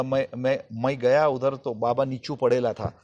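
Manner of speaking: a hint of rustic Marathi tone in Hindi. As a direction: imitate a Marathi speaker's Hindi, unhurried. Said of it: "वो Marathi tone".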